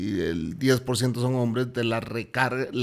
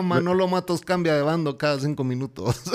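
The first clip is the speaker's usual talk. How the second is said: a touch higher, hammed-up headline read; mock news flash; 4 semitones higher than usual. Cohost mocking Manolo's switch of sides as breaking news. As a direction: tease him like a gossip anchor.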